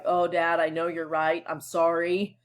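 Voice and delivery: mildly subdued, humble apology; understated demo of humility. Shown as a demonstration. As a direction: give in meekly to a parent. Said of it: "a humble voice is kinda like".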